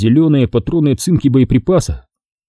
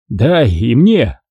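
mild slow moan; much slower than usual. Acted. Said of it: "простонал Карцев".

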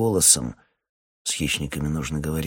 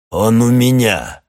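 loud, higher call from afar; 5 semitones higher, 11 dB louder than usual. Acted. Ermil calls to Boyko from the darkness, loud. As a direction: shout it across the clearing.

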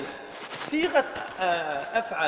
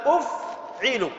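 slow drawn-out model word; 2 semitones higher, much slower than usual. Shown as a demonstration. Teacher to class, slowly modelling أفعل. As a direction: stretch أفعل out slowly, every sound held. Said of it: "فيصير فعل ماذا؟".

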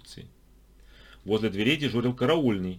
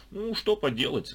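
slow, resigned sigh; Vasily resigned to the high price; 7 semitones higher than usual. A narrator's reading. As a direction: give up with a shrug in the voice. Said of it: "вздохнул Василий".

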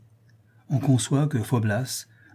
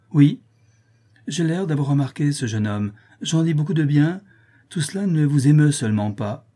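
raised, mildly indignant complaint; higher-pitched acted vexation; exasperated reproach; 4 semitones higher, 4 dB louder than usual. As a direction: press the lover for a reaction. Countess reproaches her calm lover.

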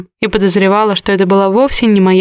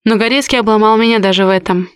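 ordinary delivery, nothing marked

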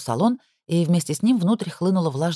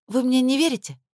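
высоко, с обидой и негодованием; задета недоверием; искреннее возмущение; 8 semitones higher than usual. A narrator's reading. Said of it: "искренне возмутилась Надя". (искренне возмущённо)

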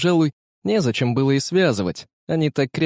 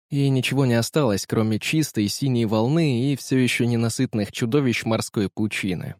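usual speaking voice

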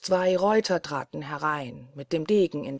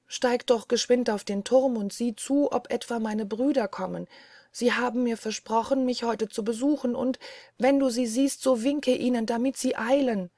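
higher, anxious voice of the wife; frightened wife calling her sister; 5 semitones higher than usual. Acted. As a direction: urge her sister up the tower. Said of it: "rufte sie ihre Schwester". (ängstlich bittende Frau, höher)

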